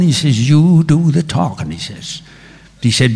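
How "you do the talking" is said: higher Irish brogue; scheming Irishman, in an Irish accent. Retold or imitated. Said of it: "the Irish accent".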